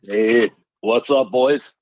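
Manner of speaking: slow, smooth sultry greeting; sultry narrator. Acted. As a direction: lay the sultry voice on thick. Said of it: "that sultry voice".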